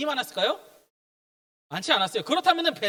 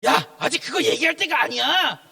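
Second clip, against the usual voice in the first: mock scolding; 3 semitones higher than usual. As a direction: pretend telling-off in an altered voice. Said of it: "아니면 혼내셨을까?". (혼내는 척하는 말투)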